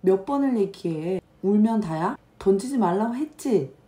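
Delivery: put-on high, loud scolding of the kids; angry scolding mother. Mother yelling at her fighting kids, high and loud. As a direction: scold them like an exasperated mom.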